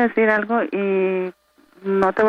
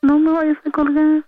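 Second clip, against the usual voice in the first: pleading; 5 semitones higher than usual. Real, not acted. Girlfriend begging not to hang up.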